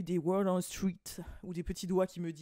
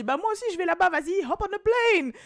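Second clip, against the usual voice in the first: mock casual invite; 11 semitones higher, 8 dB louder than usual. Voices Kelce inviting Megan.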